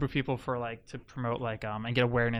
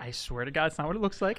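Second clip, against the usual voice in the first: stammering guilty denials; 4 semitones higher than usual. Pretend. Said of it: "let's reenact this".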